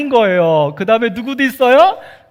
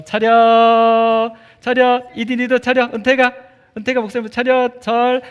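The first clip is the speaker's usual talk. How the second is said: attention call; 3 semitones higher than usual. Real, not acted. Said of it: "calling kids to attention".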